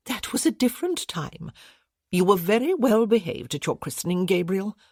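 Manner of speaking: put-on sweet elderly lady correcting her husband; Lady Vickers voiced. Lady Vickers protests fondly.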